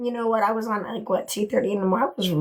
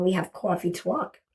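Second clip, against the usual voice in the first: lightly put-on New York accent, lower; a touch of old New York; 3 semitones lower than usual. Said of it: "I sound like I'm from New York".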